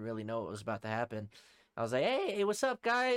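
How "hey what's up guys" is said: high, loud drawn-out hail; drunken greeting. Retold or imitated. Drunk partygoer greets three approaching girls, high drawn-out greeting. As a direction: imitate a tipsy, over-friendly shout.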